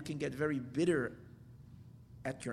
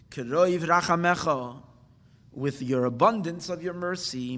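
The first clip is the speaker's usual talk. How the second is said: much louder, slow fervent plea; heartfelt plea; 10 dB louder than usual. Shown as a demonstration. Teacher voicing a penitent begging God for mercy, loud and slow. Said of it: "request from the depth of his heart".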